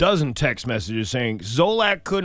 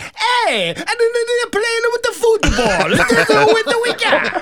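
very high, loud, stereotypical cartoonish Italian accent; 7 dB louder than usual. Showing how the Italian lines should go: cartoonish stereotypical Italian accent. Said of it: "cartoonish, Flintstone-y, uh, stereotypical Italian".

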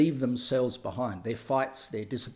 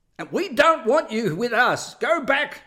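all-out shrill scream at the top of lungs; 10 semitones higher, 7 dB louder than usual. Retelling a woman yelling into the car at a spook, imitating her screaming. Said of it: "screaming at the top of her lungs".

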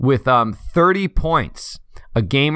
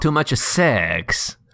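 comedic, put-on, exaggerated Eastern European accent. Wondering why a player didn't play, the speaker breaks into a Borat voice. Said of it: "I don't know what that voice is".

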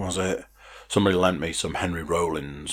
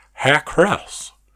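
throaty, raspy bro voice, pitched a little higher; 9 semitones higher, 8 dB louder than usual. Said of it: "a bit throaty".

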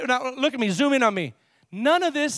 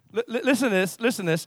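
ordinary delivery

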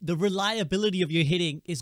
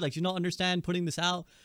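usual speaking voice

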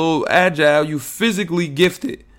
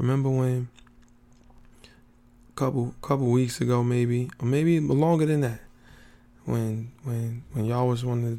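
whisper, lower and quieter; 4 semitones lower, 9 dB quieter than usual. Speaker addressing the audience, whispering to save energy. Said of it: "I'm whispering because I want to save my energy".

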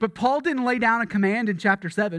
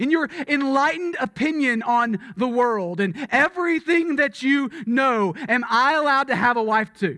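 put-on heavy, biting sarcasm; 5 semitones higher than usual. Retelling Paul's questions to the church: biting sarcasm. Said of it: "his tone shifts to kind of a biting sarcasm".

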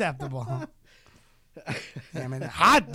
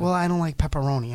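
ordinary talk, nothing marked

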